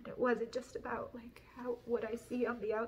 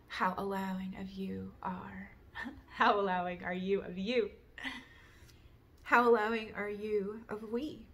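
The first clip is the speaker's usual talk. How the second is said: deliberate questions, emphatic openings; reflective recital; 4 dB louder than usual. Real, not acted. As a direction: pose each question like a written meditation. Reads out written reflective questions.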